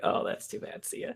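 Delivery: unvoiced whisper; whispered goodbye. Paul whispering a fake-sorry goodbye to the leaving Chad, hushed. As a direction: whisper it so he barely hears. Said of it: "in a really quiet voice".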